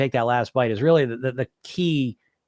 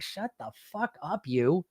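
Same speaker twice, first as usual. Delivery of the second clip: talking back; 4 semitones higher, 8 dB quieter, slower than usual. Acted. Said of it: "We all got this voice in our head".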